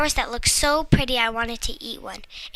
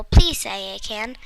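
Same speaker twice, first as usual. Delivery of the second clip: pleading; slower than usual. Acted. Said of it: "said pleadingly".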